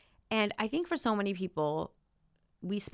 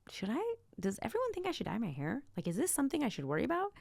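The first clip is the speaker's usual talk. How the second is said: mock worrying; 6 semitones higher than usual. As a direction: imitate someone fretting over what others think. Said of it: "You're not worrying".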